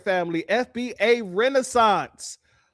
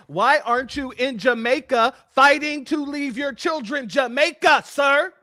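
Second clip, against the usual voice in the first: calmer tone. Shown as a demonstration. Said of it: "Let me say that in a more calmer tone".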